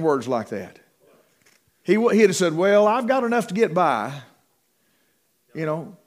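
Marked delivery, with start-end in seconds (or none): 2.5-4.1 higher-pitched mock hinting for money; hammed-up modest plea; mock fishing for offerings. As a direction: play a preacher hinting he needs more. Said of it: "He's not fishing for another offering".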